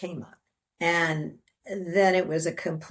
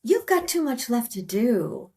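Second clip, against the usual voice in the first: higher, insistent sing-out; lightly voiced friend; retold coaxing friend; 6 semitones higher than usual. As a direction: break it to her, pitched up. Friend sends her back, retold.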